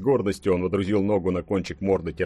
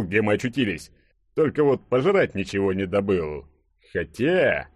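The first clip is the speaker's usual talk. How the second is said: lively, slightly raised character voice; burly hero storytelling; 3 semitones higher than usual. Acted. Hero recounting his lizard encounter to friends, animated yarn-spinning. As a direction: spin the hunting tale with animated emphasis.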